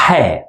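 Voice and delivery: he breathed from the middle throat; breathy throaty h; throat sound. Shown as a demonstration. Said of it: "we pronounce it as".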